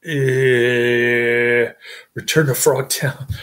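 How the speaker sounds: lightly mimicked low mumble; a hint of a bored action-star mumble; mumbling Brian James. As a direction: mumble the title half-heartedly like the actor. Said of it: "he just kind of mumbles like".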